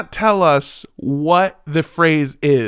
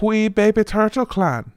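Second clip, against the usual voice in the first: higher-pitched Scottish that comes out Irish; Irish-sounding Scottish attempt; 5 semitones higher than usual. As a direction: try Scottish, drift into a lilting Irish accent. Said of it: "Yeah, that's Irish".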